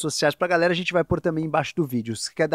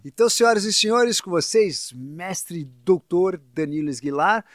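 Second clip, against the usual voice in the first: grand entrance announcement; 2 semitones higher, slower than usual. Acted. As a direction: present the guest like a ringmaster. Host introduces guest at show end. (anúncio de entrada triunfal)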